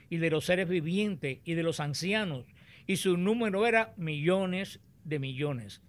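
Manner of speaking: solemn, measured Bible reading aloud; scripture reading. Acted. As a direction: proclaim the passage phrase by phrase, with deliberate pauses. Reads the scripture passage aloud.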